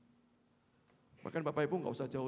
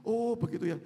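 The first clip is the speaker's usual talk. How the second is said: louder reply; 6 semitones higher, 9 dB louder than usual. Retold or imitated. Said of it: "Saya cuman".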